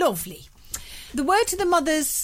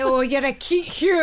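put-on Irish accent.

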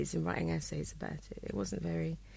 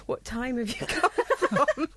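higher, louder mock bewilderment, laughing; imitating off-her-face girl; 4 semitones higher, 4 dB louder than usual. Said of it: "she was off her face".

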